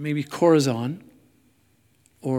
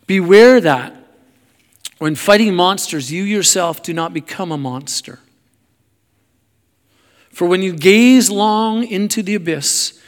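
emphatic warning; 4 semitones higher, 10 dB louder than usual. Acted. Preacher reads Nietzsche's warning about monsters to congregation, loud emphatic declaiming. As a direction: declaim it as a grave warning, leaning hard on key words.

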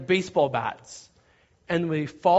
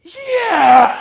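high, full-out yell; roaring crowd cheer; 13 semitones higher, 16 dB louder than usual. Retold or imitated. Two hundred camp kids react, roaring high cheer.

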